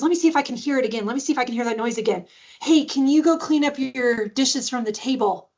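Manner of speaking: lightly acted playful mom; playful pretend curiosity. Mom testing for the noise, lightly playful. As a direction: make a little game of the request. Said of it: "she just kept it so playful".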